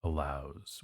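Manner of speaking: slow model reading; slow demo. Shown as a demonstration. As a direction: stretch out landing to show the pairing. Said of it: "we can say".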